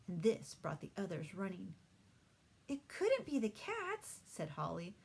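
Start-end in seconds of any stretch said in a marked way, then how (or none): 2.7-4.2 breathless eager. A narrator's reading. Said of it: "racing up to Pete".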